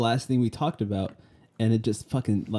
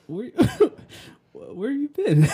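excited greeting; 13 semitones higher, 4 dB louder, slower than usual. Retold or imitated. Quoting themselves greeting absent friend.

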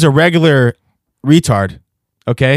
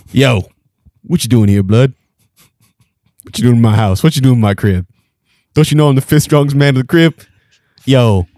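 swagger like the fifth strongest man; mild hammed-up bruiser; tough guy; 2 semitones higher than usual. Transformed strongman character talks.

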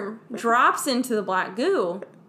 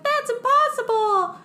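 high, slow mock disbelief through laughter; laughing mock disbelief; 14 semitones higher, 4 dB louder, slower than usual. Noomi told she is four months pregnant, high laughing disbelief. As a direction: gasp it up high, cracking up. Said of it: "It's like, Luke, "No, that's impossible".

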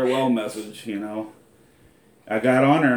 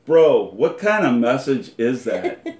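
laughing; 2 semitones higher, 6 dB louder, slower than usual. Retold or imitated. Friend quoted teasing on FaceTime.

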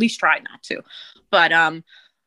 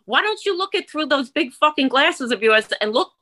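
retold angry tirade; 6 semitones higher than usual.

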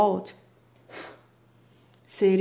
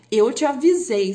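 a touch louder told-you-so; hammed-up I warned you; mock scolding warning; 3 semitones higher, 5 dB louder than usual. Vlogger acting a duet from a song, mild mock scolding. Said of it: "eles falam".

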